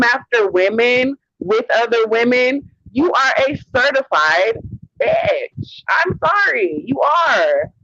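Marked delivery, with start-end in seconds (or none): 5.0-7.7 shrieked insult. Real, not acted. Ranting at a rival streamer.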